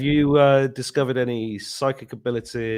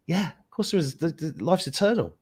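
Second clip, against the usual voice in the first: higher mock confident reply; his own reply retold; 7 semitones higher than usual. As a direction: replay his own sure answer, pitched up. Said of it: "And I went".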